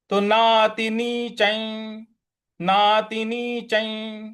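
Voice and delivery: नातिनीचं ending in a palatal nasal; anusvara as nasal ña. Shown as a demonstration. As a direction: close नातिनीचं with the ञ sound. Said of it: "वो वाला उच्चारण ले आएंगे".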